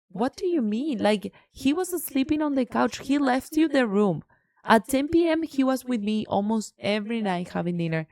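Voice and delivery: retelling how she scolded the roommate, indignant; retold confrontation. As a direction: lay into him, incredulous.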